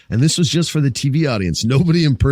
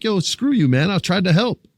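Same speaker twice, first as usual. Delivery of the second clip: mock angry Jay; 10 semitones higher than usual. Imagined Jay lashing out at Roman.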